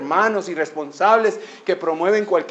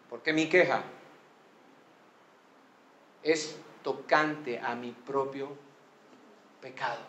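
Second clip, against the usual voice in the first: sinner's lament. Acted. Voices a lost sinner's lament.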